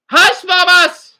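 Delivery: mock voice.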